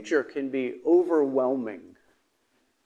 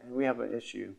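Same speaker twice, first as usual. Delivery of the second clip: gentle request; 6 dB quieter than usual. Pretend. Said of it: "wake him up, say".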